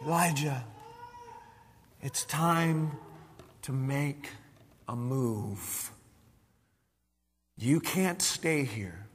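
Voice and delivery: barely above a murmur, low and tender; still small voice. Acted. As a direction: speak as the quiet voice of God at the back of a cave. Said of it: "a still small voice".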